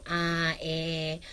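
demonstrating verbal fillers; hesitant filler demo. Shown as a demonstration. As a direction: show a speaker groping for words. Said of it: "Marami ka bang".

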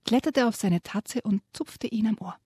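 lively reading to children, voicing the animals; storyteller's voice reading a children's book aloud; story narration. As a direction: read the dragon tale with relish to young listeners.

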